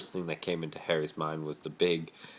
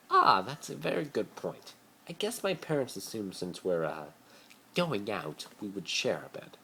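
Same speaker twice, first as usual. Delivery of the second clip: Draco's voice; 4 semitones higher than usual. A narrator's reading. Draco explains shared bed to Harry, awkward and high. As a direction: fumble through the excuse.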